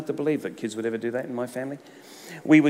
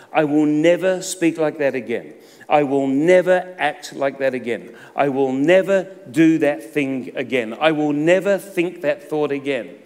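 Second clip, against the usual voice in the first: emphatic vows; 3 semitones higher, 6 dB louder than usual. Retold or imitated. Mock resolutions, loud.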